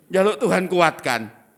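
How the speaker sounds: laughing mockery. Mocking prayer for strength.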